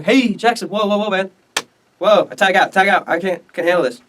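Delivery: high, mock-alarmed protest; acted panicky retreat. Calhoun backing down, acted.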